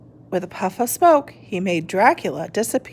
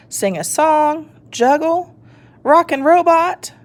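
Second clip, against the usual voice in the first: lightly voiced pondering skeleton; musing over options; wondering; 8 semitones higher, 3 dB louder than usual. A narrator's reading.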